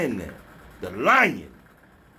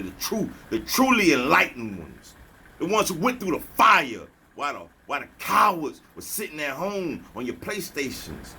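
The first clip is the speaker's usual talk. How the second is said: forceful; 4 semitones higher than usual. Acted. Preaching to the chosen ones, forceful and raised. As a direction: drive it home like a sermon. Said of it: "That had to be very forceful with you".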